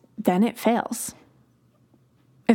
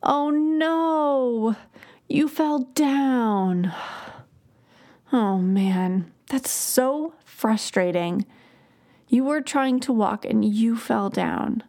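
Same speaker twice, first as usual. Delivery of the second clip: put-on empathetic toddler voice; 3 semitones higher, slower than usual. Shown as a demonstration. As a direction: feel it with the little one, drawn out. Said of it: "put my whole body and my voice into it".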